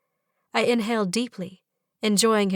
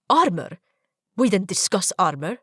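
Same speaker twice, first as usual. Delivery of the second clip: indignant surprise; 3 dB louder than usual. Acted. Zahid objects, surprised.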